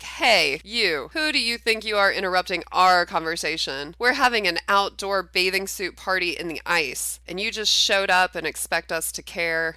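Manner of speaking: loud, rude confronting of an intruder; rude introduction. Acted. Brandy snapping at an intruder, loud and rude. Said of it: "let's do a rude introduction".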